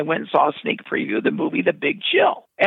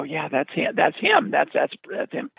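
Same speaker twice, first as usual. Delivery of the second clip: hushed confirmation; 5 dB quieter than usual. Retold or imitated. Confirming to delivery guy.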